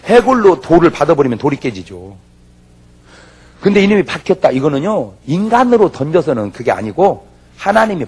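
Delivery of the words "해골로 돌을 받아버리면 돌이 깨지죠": ordinary talk, nothing marked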